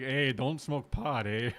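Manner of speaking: slow, hammed-up Canadian accent with a drawn-out eh; mock Canadian accent. Canadian ad voice telling kids off, in a mock Canadian accent. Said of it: "Canadian versions".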